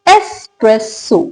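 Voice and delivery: एस्प्रेसो slowly, es-press-o with plain S; three separated syllables in एस्प्रेसो, no X; correct pronunciation. Shown as a demonstration. Teacher confirming how it is read, correct without X. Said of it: "इसको पढ़ा जाता है".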